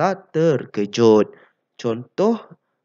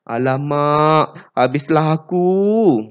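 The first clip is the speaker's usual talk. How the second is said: worried; 2 semitones higher, 5 dB louder, slower than usual. Shown as a demonstration. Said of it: "menunjukkan perasaan risau".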